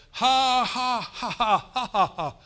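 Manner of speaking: loud, high deliberate ha ha ha; forced laughter by faith. Shown as a demonstration. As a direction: laugh out loud on purpose at the problem. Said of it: "just like that".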